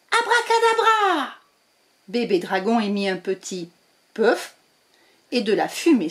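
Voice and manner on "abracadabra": high magic word; spell cast. Acted. Witch casting her last spell, high voice. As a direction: chant the spell.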